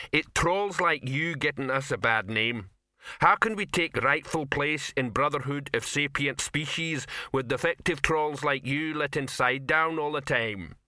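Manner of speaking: slow-witted troll lecturing in broken grammar; indignant troll leader. Acted. Rock scolding a fallen troll, mildly indignant.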